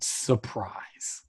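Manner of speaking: low, deliberate imitation; overt, pointed delivery. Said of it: "he just very overtly says the word".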